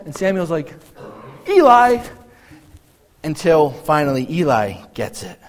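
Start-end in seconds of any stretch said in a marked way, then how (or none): 1.5-2.0 high, loud call of a name; mock summons, pitched up. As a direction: call out as if to someone in another room. Acting out Samuel calling to Eli.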